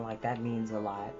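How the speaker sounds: plain reading voice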